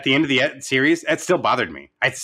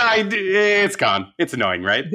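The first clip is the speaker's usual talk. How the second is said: mock Wanda complaint; 4 semitones higher than usual. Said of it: "the way that she slowly started changing her voice".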